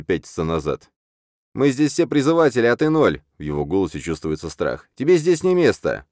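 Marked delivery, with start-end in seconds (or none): 1.5-3.2 high loud defiant yell; frightened bully yelling defiance; shouting. A narrator's reading. Scared upstart shouts back. 4.9-6.1 high squeaky jeer; squeaky bully jeering at the newcomer; squeaky taunt. A narrator's reading. Scared upstart repeats taunt.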